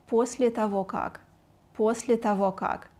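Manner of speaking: quick, connected demonstration. Shown as a demonstration. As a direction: run the words together as one. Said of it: "try to say it faster".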